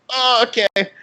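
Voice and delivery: high, drawn-out nervous "oh, okay"; uneasy okay. Retold or imitated. Coach puts pressure on young player.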